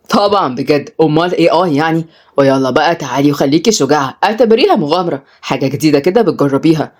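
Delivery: low, cool dare; challenging. Acted. Oday daring Kenzi to be brave, challenging. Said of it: "بص هدية بتحدي".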